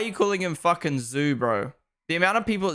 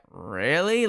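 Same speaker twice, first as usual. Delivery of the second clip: retold disbelief; 2 semitones lower than usual. Retold disbelief at creators' trick.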